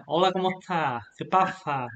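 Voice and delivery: every S in "está" and "pasa" said as TH; tongue poking out on the S of "pasa"; ceceo lisp. Shown as a demonstration. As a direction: demonstrate a southern Spanish lisp, "está" and "pasa" with TH. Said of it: "they have like a lisp".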